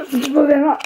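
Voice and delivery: words slurred by a bitten tongue; just bit tongue. Real, not acted. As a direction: speak right after biting your tongue. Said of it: "je me suis mordu la langue".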